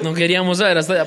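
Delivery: fast laughing protest; amused fast objection. Real, not acted. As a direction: rush it out between laughs.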